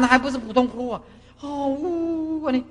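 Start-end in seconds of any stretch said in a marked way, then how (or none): 1.4-2.5 high drawn-out mock sobbing "woo"; mock wailing. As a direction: imitate a long, miserable wail. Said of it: "哦，哭得很惨". (模仿呜呜大哭)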